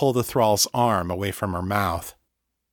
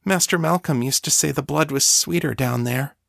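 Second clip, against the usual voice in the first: lightly voiced young thrall, higher; timid thrall; 5 semitones higher than usual. Thrall coaxing her mistress to bite, mildly timid. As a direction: offer it meekly, pitched up.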